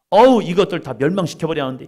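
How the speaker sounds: mock exasperated outburst. A preacher mimicking a fed-up grumble about sinners. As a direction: blurt it like you've had enough of them. Imagined angry thought of Jesus.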